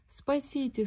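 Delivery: tiny squeak calling for help; a small voice squeaking up from the pit; squeaky little voice. A narrator's reading. Piglet squeaking up from the pit: thin squeak. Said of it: "сказал тоненький пискливый голосок".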